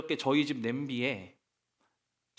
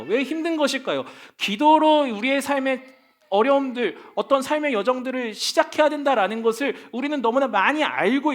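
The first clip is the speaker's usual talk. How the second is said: raised, higher-pitched preaching voice; impassioned preaching; 7 semitones higher, 6 dB louder than usual. Real, not acted. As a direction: press the questions on the congregation with force. Preacher's impassioned rhetorical questions. (힘주어 호소하는 설교조)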